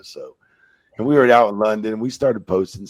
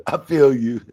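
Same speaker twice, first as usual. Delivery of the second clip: laughing echo; 6 semitones higher, 8 dB louder than usual. Pretend.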